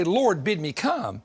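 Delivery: slow, drawn-out plea; confident request. Retold or imitated. Preacher quoting what Peter didn't say, slow and sure.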